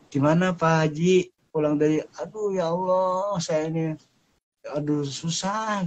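a hint of a weary pilgrim moaning; complaining pilgrim. Returning pilgrim moans lightly about his hardship.

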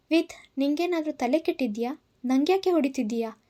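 put-on a slapped girl snapping back, pitch up; angry question. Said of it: "ಕೋಪದಿಂದ ಕೇಳಿದಳು".

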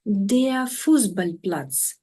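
"Fußballplatz" pulled apart very slowly, part by part; slow spelling-out model of the compound; slow syllable by syllable. Shown as a demonstration. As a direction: build "Fußballplatz" slowly from its pieces. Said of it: "Наголос на першому описовому слові".

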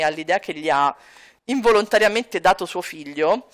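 ordinary talk

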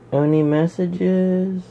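slow, high hopeful question; hopeful drawl. Real, not acted. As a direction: stretch it out hopefully. Hopefully checks phone.

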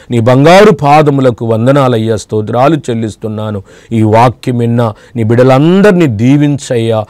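lightly voiced earnest prayer to the Father; closing prayer. (ప్రేక్షకుల కోసం తండ్రికి చేసే ప్రార్థన, మృదువుగా)

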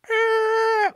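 sharp high startled "Ah!"; startled gasp. Retold or imitated. Spotting his first love on the street, startled shout. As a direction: jolt of recognition, loud and high. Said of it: "I'm like".

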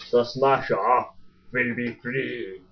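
slow, stretched hint of a German accent; attempted Russian that comes out German; botched German accent. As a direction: slip into a German accent towards the end. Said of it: "end in some sort of German accent".

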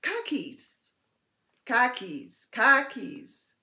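"Khakis" said several times with an open "kah" in the first syllable; copying a friend saying "Khakis" as "kahkis"; imitating Nikki. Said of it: "I'm trying to do you, Nikki".

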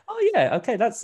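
high-pitched, casual "oh yeah" of recognition; lightly acted dawning recognition; easy acceptance. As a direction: accept it as you notice it, no fuss. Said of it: "It was like".

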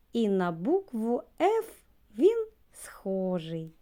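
secret whispered rhyme line. Acted. Teacher sharing a rhyme with children, hushed whisper. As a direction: lean in and whisper the punchline.

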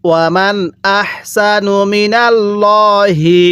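slow, drawn-out tajweed chant; Quran recitation. Shown as a demonstration. Teacher recites the verse for students, slow tajweed chant. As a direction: intone each syllable slowly like a reciter. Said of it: "হ্যাঁ, পড়ুন".

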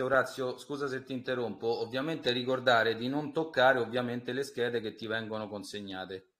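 faint, distant phone line; far from mic. Real, not acted. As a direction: voice fading away from the phone. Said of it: "Scusa, non ho sentito".

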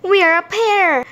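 high, delighted storybook voice; thrilled character exclamation; excited. A narrator's reading. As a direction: announce it with high-pitched glee. Simon has found his pair.

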